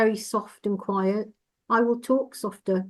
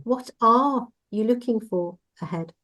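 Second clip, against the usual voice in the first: "are" pushed and lengthened; "are" stressed in the question. Shown as a demonstration. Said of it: "we put the emphasis on each word".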